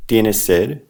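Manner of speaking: "Tienes sed" with a rise at the end; question intonation. Shown as a demonstration. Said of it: "say it like a question".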